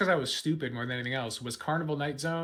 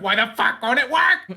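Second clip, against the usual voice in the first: frustrated outburst; 8 semitones higher, 7 dB louder than usual. Retold or imitated. Retold frustration at game.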